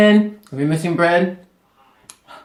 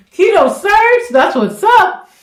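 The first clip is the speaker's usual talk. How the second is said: high, loud and hyped; excited high shout-out; 7 dB louder, slower than usual. Real, not acted. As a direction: cheer the name out high. Excited shout-out to recipe creator.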